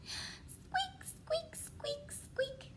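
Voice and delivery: tiny, high, soft squeaks; mouse squeak. Pretend. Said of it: "That is what they say".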